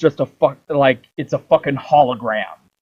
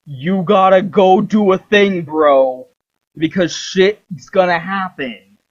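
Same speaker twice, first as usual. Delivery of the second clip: goddess addressing player; 2 semitones higher, slower than usual. Retold or imitated. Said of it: "the fourth wall and says".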